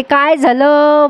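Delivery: lightly voiced old woman, drawn-out asking; Bayo's drawn-out question. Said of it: "बयोचा शब्द फार भारी आहे".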